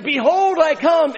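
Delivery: thundering climax. Retold or imitated. Pastor leaning over the pulpit, roaring the final call. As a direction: lean out and roar it at the peak. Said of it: "louder and louder and louder".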